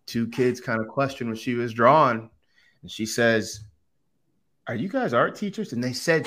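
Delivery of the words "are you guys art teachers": pointed question. Retold or imitated. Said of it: "she said it the way I said it".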